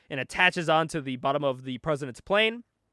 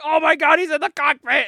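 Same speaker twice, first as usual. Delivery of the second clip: high, loud panicked shout; mock panic; 9 semitones higher, 7 dB louder than usual. Host voicing guards as hero breaks in, mock panic. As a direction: yell the alarm like a hammed-up guard.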